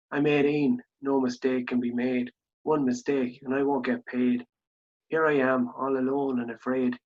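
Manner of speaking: measured, plain-spoken poem recital; poem reading. Acted. Host reading out a listener's poem, measured recital. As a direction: read the poem out evenly, phrase by phrase.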